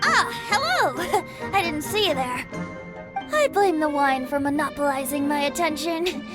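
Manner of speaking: put-on mildly drunk, merry rambling; a touch of tipsy wonder. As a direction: ramble happily after too much wine. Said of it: "That would be the drink talking".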